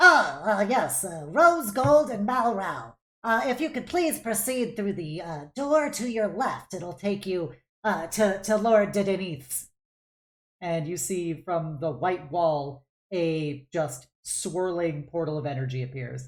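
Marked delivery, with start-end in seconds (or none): 0.0-9.7 little gnome character voice. Voicing a gnome checking a screen and directing visitors: little gnome clerk voice.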